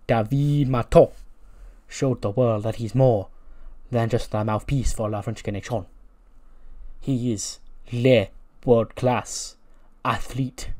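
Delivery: hammed-up French accent, le words stressed. French wrestler announcing his WrestleMania match in a French accent. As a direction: put on a cheesy French accent. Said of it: "And he's like".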